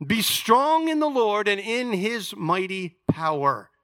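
slow, deliberate verse reading; scripture reading. Shown as a demonstration. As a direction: stretch STRONG and let the verse settle on "power". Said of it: "we read it this way".

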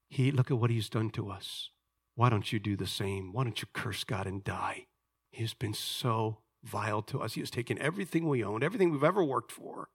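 understated, resentful wife's complaint; bitter wife. Acted. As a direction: voice a wronged wife, starting under the breath. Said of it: "try to put myself in the setting".

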